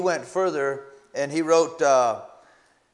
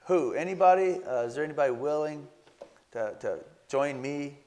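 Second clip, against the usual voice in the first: mock timid asking. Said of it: "You think that that's how he responded?".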